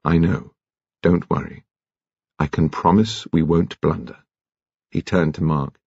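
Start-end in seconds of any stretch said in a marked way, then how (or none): 0.0-4.2 gentle. A narrator's reading. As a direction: reassure them gently in a lowered pitch. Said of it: "Alain said gently".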